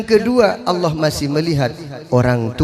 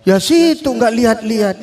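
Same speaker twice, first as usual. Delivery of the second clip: annoyed retort; 7 semitones higher than usual. Retold or imitated.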